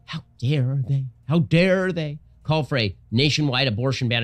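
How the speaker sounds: mock outrage, stressing dare; mild mock outrage. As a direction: imitate her fake indignation. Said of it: "she started yelling at Republicans".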